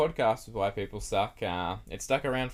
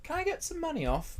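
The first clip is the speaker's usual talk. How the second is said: entitled customer; 3 dB quieter than usual. Retold or imitated.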